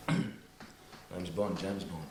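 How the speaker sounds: a second take of the Bond line, drawn right out; slow deliberate Bond line. Acted. Bond to the Georgian woman, slow and drawn out. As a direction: stretch out My name's Bond slowly, then James Bond. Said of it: "retake after clearing throat".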